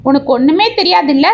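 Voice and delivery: bitter taunting, understated rage; snarling. Acted. Betrayed husband throwing his wife at his friend, mildly snarled. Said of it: "என்று சீறினான்".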